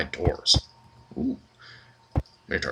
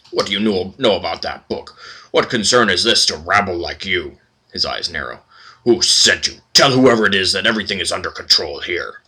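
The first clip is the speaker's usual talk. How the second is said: suspicious librarian. Acted. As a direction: brush them off and end it sharply. Librarian grows suspicious, dismisses.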